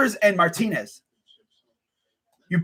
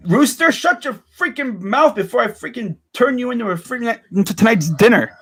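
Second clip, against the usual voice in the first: angry yell at rooster. Real, not acted. Yelling at the crowing rooster outside, angry. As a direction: snap at the bird to shut up.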